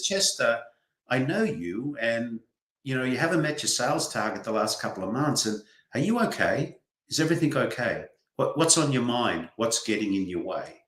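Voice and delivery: gentle, unhurried concern; caring check-in. Acted. Leader talking to Chester about a missed sales target, gentle and caring. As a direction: ask softly, as a supportive leader would. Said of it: "Maybe a conversation is".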